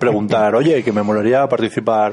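con la boca llena de chuches; hablando con la boca llena. Real, not acted. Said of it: "no hables con la boca llena". (hablando con la boca llena, comiendo)

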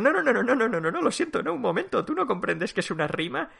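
loud, high flurry of no no no at the author; retold outburst. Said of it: "Y entonces digo".

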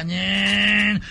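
drawn-out "nyeeen" of a car in gear; comic engine noise; imitated engine whine. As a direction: mimic a car pulling away.

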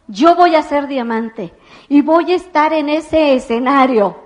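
half-shouted vow, carried away; retold crazy yell. On a table at the convention, vowing to the room: excited shout. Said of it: "empiezo a gritar como loca".

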